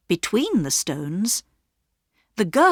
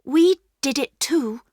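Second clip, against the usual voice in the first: higher, brave confession; girl Bobby; 8 semitones higher than usual. A narrator's reading. Bobby to the station master, bravely confessing. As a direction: own up beside her brother. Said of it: "Bobby told the station master".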